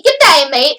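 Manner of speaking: chirpy Aussie greeting; quick mock-Australian lilt; bouncy Australian accent. Shown as a demonstration. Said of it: "the type of bouncy".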